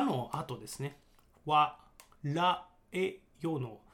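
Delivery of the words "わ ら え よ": 「わ、ら、え、よ」 with a small rolled ra. Shown as a demonstration. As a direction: roll the r in 「ら」 of 「わ、ら、え、よ」. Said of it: "ちっちゃい「あ」みたいのつけるんですよね". (「ら」を巻き舌で)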